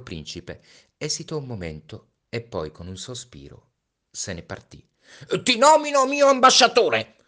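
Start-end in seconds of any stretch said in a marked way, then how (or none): 5.4-7.2 high, loud hurried call; king shouting a last order after the prince; shouted after him. Acted. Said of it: "si affrettò a gridargli appresso il re".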